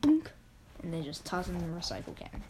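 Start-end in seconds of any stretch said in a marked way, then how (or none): 0.0-0.3 short cartoon boink; imitated boink. Reader sounds out jars being tossed for recycling, boink. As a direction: make a quick bouncing noise.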